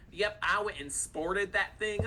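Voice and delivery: put-on a weak, slowed stab at a British accent; lightly mock a British speaker; half-hearted British accent; bad British accent. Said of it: "You have a horrible British accent".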